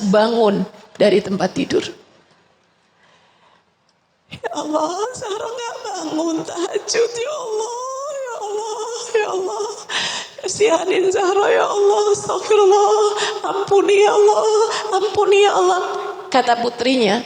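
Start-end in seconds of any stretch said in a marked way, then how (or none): 4.3-15.8 weeping prayer. Retold or imitated. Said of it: "Umi saya menangis nggak henti".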